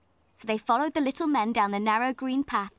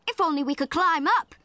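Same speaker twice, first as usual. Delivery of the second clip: put-on higher, wistful little girl; longing child; 6 semitones higher, 5 dB louder than usual. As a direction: wish for it with longing. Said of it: "said Jo longingly".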